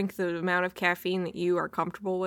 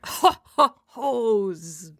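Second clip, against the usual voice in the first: jolly ho ho ho; 2 semitones higher, 5 dB louder, much slower than usual. Acted. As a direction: belt it like a cheeky Santa. Horny Santa voice.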